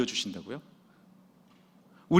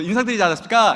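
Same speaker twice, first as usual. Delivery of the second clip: acted sergeant's protest; 5 semitones higher, 7 dB louder, faster than usual. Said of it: "말투 왜 그래?".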